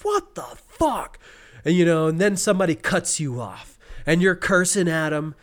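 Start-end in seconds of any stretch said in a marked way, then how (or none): 0.0-1.2 very high, slow, strained mock curse; exasperated outburst. Acting out hitting every red light, drawn-out exasperated squeal. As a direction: drag out each word in disbelief.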